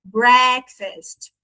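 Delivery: "breakfast" with a drawn-out, half-A half-E vowel; silly open vowel. Shown as a demonstration. Teacher showing the silly A-E sound, pronunciation demo. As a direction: exaggerate the goofy open "é" in "breakfast". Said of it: "A meio E bobado, assim, é".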